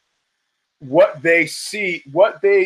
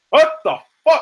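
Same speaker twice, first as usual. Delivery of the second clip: much higher, loud shocked cry; retold shocked yell; 11 semitones higher, 4 dB louder than usual. Bottled friend yelling at his attacker, shocked shout. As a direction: yelp it like you just got hit.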